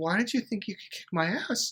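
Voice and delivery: amused, giggling, laughing through the words. Retelling helping someone up after pushing them: retelling own giggling reply. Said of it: "I'm kinda giggling, going".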